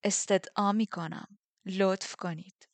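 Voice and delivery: slow, sarcastic politeness; slow, mock-polite sneer. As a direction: drag out the courtesy to mock her. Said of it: "با تمسخر اضافه کرد".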